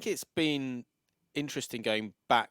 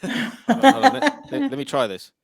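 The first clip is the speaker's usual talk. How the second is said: high, loud and flustered; hurrying to work it out; excited; 14 semitones higher, 12 dB louder than usual. Real, not acted. Rushing to find a beep.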